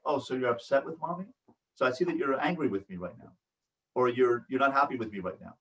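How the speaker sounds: soft, low acknowledging voice; softly name the other person's upset; gentle acknowledgement. Acted. Parent to upset child, gently acknowledging.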